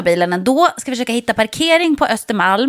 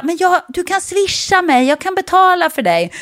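put-on helpful old man; 8 semitones higher than usual. Old man offers to pay.

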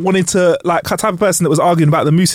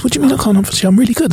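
higher-pitched offended hunter; put-upon, higher voice; mock indignant protest; 5 semitones higher, much faster than usual. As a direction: protest the taunt in a raised pitch.

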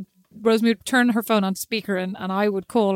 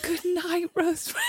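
stifled laugh; 8 semitones higher, 5 dB quieter than usual. Retold or imitated. Trying to say it while laughing.

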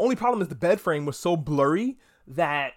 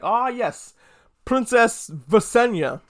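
higher, louder, slow, grand naming of the princess; knowing lore expert; 5 semitones higher, 5 dB louder, much slower than usual. Retold or imitated. Friend with the books explaining the family tree, grandly. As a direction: announce it like a sage who knows the books. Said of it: "be like".

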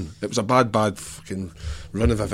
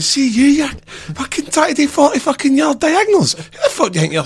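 retold angry rant; 13 semitones higher than usual. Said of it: "Jim's absolutely went through me".

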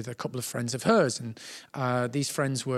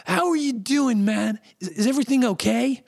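friendly concern; 8 semitones higher than usual. Retold or imitated. Tom Hanks checks on auditioner.

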